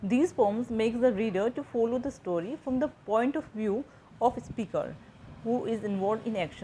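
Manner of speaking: slow, measured reading of a textbook definition; slow dictation reading. Shown as a demonstration. Teacher to students, reading the definition slowly aloud. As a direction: read each English phrase out slowly, as if for notes.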